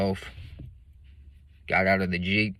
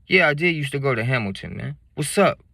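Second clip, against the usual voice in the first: put-on drunk classmate; 6 semitones higher, 5 dB louder than usual.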